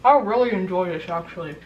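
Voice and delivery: talking with mouth full; chewing noisily. Real, not acted. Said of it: "Sorry for chewing with my mouth open".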